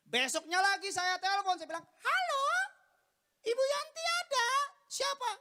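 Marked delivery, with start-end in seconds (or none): 1.8-5.3 very high, loud falsetto caller; disguised high voice. Acted. Son prank-calling his mother, squeaky high disguise. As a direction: pitch it way up to hide who you are. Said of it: "Saya suka ubah-ubah suara saya".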